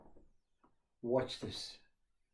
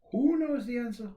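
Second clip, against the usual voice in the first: higher, louder teacher's question with "Who" stressed; teacher asking the class; 8 semitones higher, 6 dB louder than usual. Retold or imitated. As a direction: call out to the children like a teacher. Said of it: "Teacher says".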